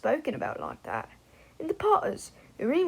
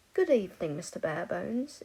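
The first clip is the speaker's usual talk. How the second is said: put-on posh English accent; 2 semitones lower than usual. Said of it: "affecting an accent learnt from".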